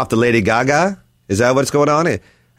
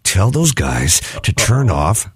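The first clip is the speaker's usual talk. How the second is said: lightly voiced low, stern boss; boss's stern tone; 6 semitones lower, slower than usual. Messenger quoting the boss to hosts, low stern imitation. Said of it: "like that kind of tone".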